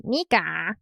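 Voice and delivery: acted anime hero echoing a name; Luffy. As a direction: toss it back as an anime hero would. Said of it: "Luffy's like".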